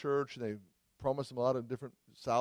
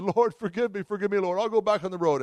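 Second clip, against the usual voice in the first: higher, louder, earnest plea of a dying man; retold pleading prayer; 7 semitones higher, 6 dB louder than usual. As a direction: cry out a vow to God. Retold Hagin's desperate vow.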